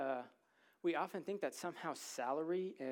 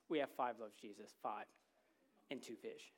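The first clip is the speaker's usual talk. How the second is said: softer and lower, deflated and trailing off; disheartened, discouraged; 4 semitones lower, 3 dB quieter than usual. Retold or imitated. Disciples reporting their meager food, discouraged and deflated. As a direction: mumble it like you've already given up. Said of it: "a very disheartened and discouraged tone".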